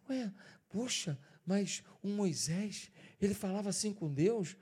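quiet wonder. Retold or imitated. New Bible reader marvels quietly.

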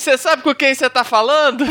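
high, loud laughing snob; entitled rich brat. Retold or imitated. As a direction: squeal it like a spoiled brat. Mocking spoiled rich brat.

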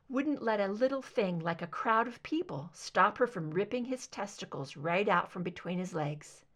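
ordinary delivery, nothing marked

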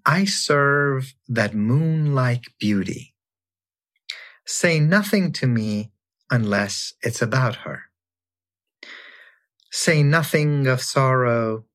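slow, measured recitation of a mystic poem; unhurried poetry reading. Acted. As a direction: savour each line like a sacred verse. Reads Rumi poem aloud.

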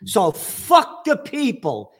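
slow, sneering put-on voice; mock elite sneer. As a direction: drawl it out like a callous tycoon. Mocking the elite's attitude.

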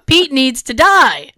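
high-pitched comic tantrum; acted-out petulant outburst; exasperated rant. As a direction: rant with mounting mock indignation. Acted rant against snake Pete.

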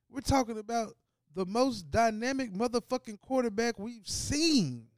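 loud, high, worked-up rant; heated rant. Real, not acted. Sports host ranting about the Ravens, heated. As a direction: get fired up about the contract.

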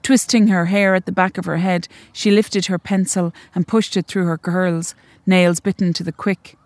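measured, even reading of a short story; story narration. A narrator's reading. Author reading her story to the audience, measured and even. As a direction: read it like an author at a launch.

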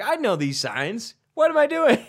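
mock exasperation. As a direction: voice rising into a squeaky cry. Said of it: "I'm like".

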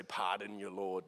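put-on stiff old-fashioned politeness; mock formal. Shown as a demonstration. Preacher mocking formal prayer talk, lightly stiff. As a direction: say it like antique courtesy. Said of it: "We don't say".

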